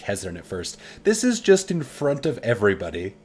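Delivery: even narrator reading game prose; story narration. A narrator's reading. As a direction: read the romance scene steadily.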